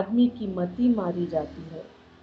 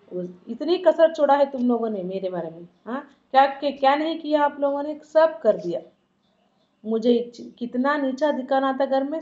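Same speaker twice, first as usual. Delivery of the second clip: raised, wounded husband's tirade; bitter outburst. Acted. Husband complains to wife of his humiliation, bitter and angry. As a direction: hurl the grievances at her. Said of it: "ऐसा बोलता है".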